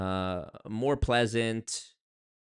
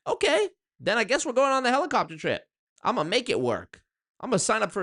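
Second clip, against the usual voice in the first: mock eager; 10 semitones higher, 4 dB louder than usual. Imagining date with Jessica Alba.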